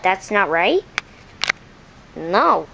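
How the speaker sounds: a pig taking offence at a silly duck; gruff pig. Acted. Pig telling the duck it got the noise wrong, low.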